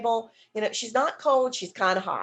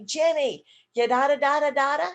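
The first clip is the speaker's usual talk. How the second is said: bright, louder, higher babble; cheerful gibberish; 4 semitones higher, 4 dB louder than usual. Shown as a demonstration. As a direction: sound fun and exciting. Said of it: "fun and wonderful and exciting".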